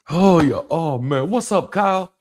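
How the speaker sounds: a hint of a laid-back bro; mock casual dude voice. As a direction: toss it off like greeting a buddy.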